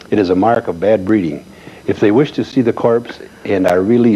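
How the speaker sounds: measured read-aloud of a formal notice; formal written-notice reading. Acted. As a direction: read it out clearly, phrase by phrase.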